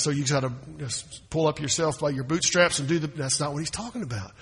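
normal talking voice

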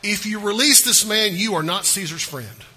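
loud, forceful scripture quote; crying out. A narrator's reading. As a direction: call it out like an accusing crowd. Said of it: "cried out".

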